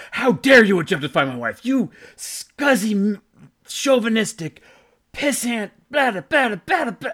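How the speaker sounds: loud, high-pitched mock rant; irate chewing-out. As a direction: rail at them like an outraged husband. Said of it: "chewing us under".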